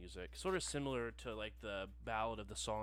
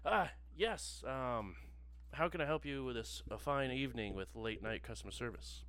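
polished phone rep voice; customer service voice; 4 dB louder than usual. Acted. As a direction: slick help line operator. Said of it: "his very familiar customer service voice".

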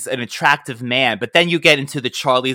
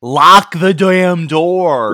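exasperated; 3 semitones higher, 6 dB louder, much slower than usual. Real, not acted. Exasperated at movie character.

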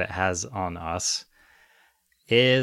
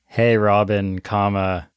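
bad American accent; slower than usual. Shown as a demonstration. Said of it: "I have to do my really bad American accent".

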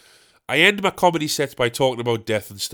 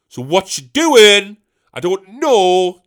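put-on higher, louder, slow puzzled old woman; imitating confused old lady; 6 semitones higher, 9 dB louder, slower than usual. Comedian voicing the confused hospital patient, puzzled. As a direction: play the baffled old patient.

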